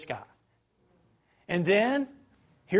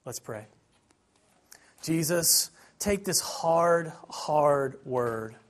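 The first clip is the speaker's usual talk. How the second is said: closing prayer; 3 semitones lower than usual. Acted. Preacher praying for the congregation, gentle and earnest. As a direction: pray it gently over them.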